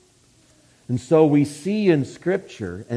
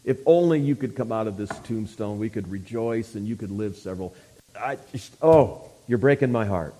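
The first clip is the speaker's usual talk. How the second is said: mock-feeble, soft, sorry lament; hammed-up limp, apologetic pleading; weak wooing; 3 semitones lower, 5 dB quieter than usual. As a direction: plead weakly, voice sunk low and soft. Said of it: "some weak kind of wooing".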